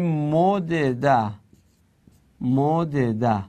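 مدده with both d sounds apart, slowly; unmerged form. Shown as a demonstration. Teacher showing the unmerged passive to students, sounded out syllable by syllable. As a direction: say مدده in three separate syllables.

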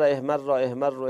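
احمر slowed, with the final ر held long and doubled. Shown as a demonstration. Teacher showing students the doubled final ر in احمر. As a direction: lean on the doubled ر at the end of احمر. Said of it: "اون آخرش رو تشدید داره، شما با تشدید صرف کنید".

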